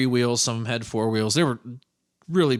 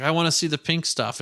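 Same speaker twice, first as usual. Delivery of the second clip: lightly voiced child, higher pitched; a hint of retold childish insistence; pleading little kid; 5 semitones higher than usual. Child self pleading with mother.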